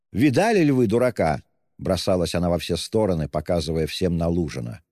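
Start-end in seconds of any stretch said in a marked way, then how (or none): 0.1-1.4 hysterical. A narrator's reading. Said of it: "истерически захохотала".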